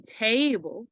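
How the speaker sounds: "table" drawn out slowly; slow demonstration. Shown as a demonstration. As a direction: say "table" slowly, stretching the first syllable. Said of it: "if you say it slowly".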